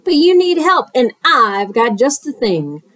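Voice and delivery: lightly voiced smooth-talking fox; sly fox. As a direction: coax him like a friendly huckster. Fox's sales patter.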